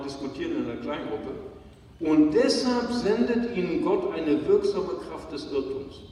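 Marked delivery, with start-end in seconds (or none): 2.0-6.0 a bold public reading of the text; loud Bible reading. Shown as a demonstration. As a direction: read out firmly and loud, as scripture. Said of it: "Mario, kannst du es nochmal lesen?".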